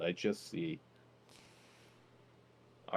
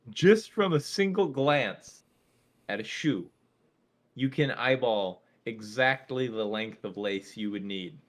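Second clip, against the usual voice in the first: laughing; 5 dB louder than usual. Real, not acted. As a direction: fight through laughter. Breaking up laughing mid-bit.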